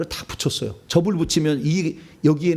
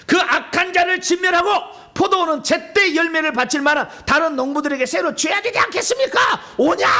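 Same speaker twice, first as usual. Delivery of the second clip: acted shouted answer; 11 semitones higher than usual. Farmers' fate pronounced by the listeners, shouted high. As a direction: shout it high like a crowd's verdict. Acting out the answer to Jesus' question.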